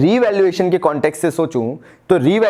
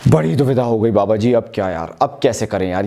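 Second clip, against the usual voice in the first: confused student; 8 semitones lower than usual. Acted. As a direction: play a stuck student pleading to the teacher. Student voice addressing Baba ji.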